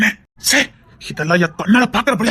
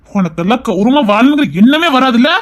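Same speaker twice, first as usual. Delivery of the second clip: angry taunt; 3 semitones higher, 4 dB louder than usual. Acted. Taunting the rival.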